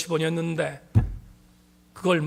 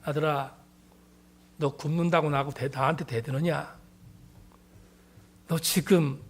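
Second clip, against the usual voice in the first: God's voice. Retold or imitated. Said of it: "이렇게 말씀하셨습니다".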